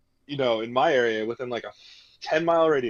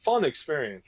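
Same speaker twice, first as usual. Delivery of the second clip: sarcastic. Real, not acted. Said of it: "I'm being highly sarcastic".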